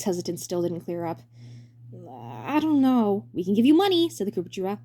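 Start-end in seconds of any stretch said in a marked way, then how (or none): 2.1-3.3 hesitant. Acted. Ludwig hesitant. 3.3-4.1 bright high showman voice; high cheery director voice. Acted.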